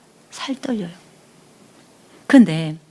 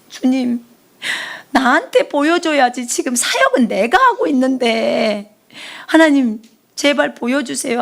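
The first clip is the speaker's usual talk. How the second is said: retold tearful plea; 2 semitones higher than usual. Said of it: "하면서 막 울었어".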